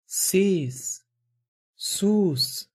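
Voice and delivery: slow, high hissing hush from a distance; drawn-out shushing from afar; distant hushing. Acted. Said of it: "یک صدا از دور". (سیس سوس کشیده و زیر از دور)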